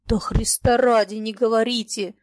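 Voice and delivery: plain reading voice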